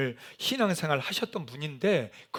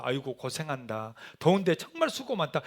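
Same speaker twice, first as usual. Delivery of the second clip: kind elder's thanks; 3 semitones lower than usual. Retold or imitated. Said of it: "이런 분들도 많았어요".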